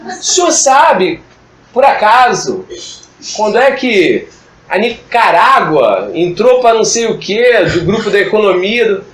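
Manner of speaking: arrogant student. Retold or imitated. Student testing the history teacher with a question, mock arrogant. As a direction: put the teacher on the spot, phrase by phrase. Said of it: "eu percebo a arrogância".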